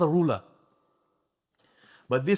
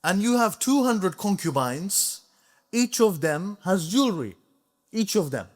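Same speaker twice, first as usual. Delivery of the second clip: higher, firmer scholar confronting the king; bold rebuke; 5 semitones higher than usual. Retold or imitated. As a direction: speak up boldly to the sultan. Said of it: "he spoke to him like this".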